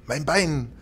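high anguished cry on Bein; pained scream. A narrator's reading. Ghost stabbed in the leg, screaming in pain. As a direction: wail Bein as the knife goes in. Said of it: "und schrie".

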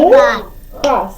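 "Муха" clapped out as "Му", "ха"; syllable by syllable. Shown as a demonstration. Teacher clapping with the pupil, "Муха" syllable by syllable. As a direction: separate the two syllables of "Муха". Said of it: "плеснем долоньки".

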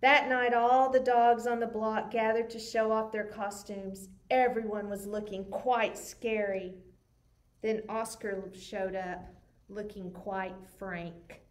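put-on lively read-aloud for kids; story narration. A narrator's reading. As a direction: tell it like a bedtime picture book. Reads picture book aloud.

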